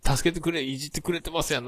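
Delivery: 高い声で関西弁で訴える; 大声は出さずに泣きつくような抗議を再現; 怒った抗議の真似. Retold or imitated. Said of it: "ワイドナショーで怒りよったもん". (先輩に文句を言う関西芸人の口まね)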